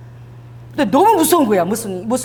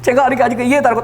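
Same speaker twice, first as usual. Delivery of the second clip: 다급한 해명; 3 semitones higher, 3 dB louder, much faster than usual. Retold or imitated. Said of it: "너무 겁나는 거야".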